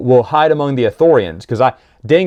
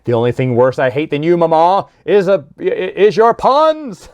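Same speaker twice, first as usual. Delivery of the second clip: Ithorian cracking up; 4 semitones higher than usual. Retold or imitated. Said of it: "the Ithorian looks at you and goes".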